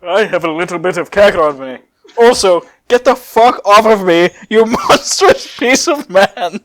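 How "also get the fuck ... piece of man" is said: loud, slow menacing brute; laughing through a hammed-up villain growl; Broly voice. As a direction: snarl it down at him like a towering brute.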